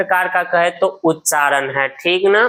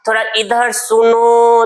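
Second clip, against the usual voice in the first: higher, louder call as if to someone far off; 5 semitones higher, 3 dB louder than usual. Shown as a demonstration. Teacher showing how to call someone from far away, raised call. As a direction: call across a distance. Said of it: "कि जोर से बोलिएगा".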